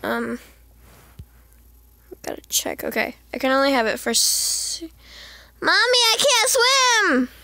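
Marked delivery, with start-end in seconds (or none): 5.6-7.3 put-on lightly higher little child voice; a hint of a small kid calling mommy; child character pleading in a light baby voice. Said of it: "I'm just gonna give her a baby voice".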